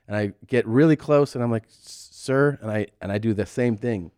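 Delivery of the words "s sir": hesitant, higher stammer, reenacted; nervous. Creeping close to injured man, nervous. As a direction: stutter a timid call to a stranger. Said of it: "I'm so nervous".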